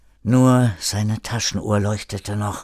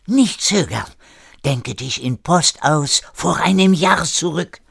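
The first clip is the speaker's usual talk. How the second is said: put-on raised, insistent French-accented German; French-accented urging; 6 semitones higher, 4 dB louder than usual. René urging hesitant Erik, insistent French accent. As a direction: urge him on in a French accent.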